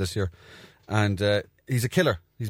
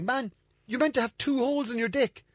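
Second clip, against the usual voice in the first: insistent. Retold or imitated. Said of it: "I was like".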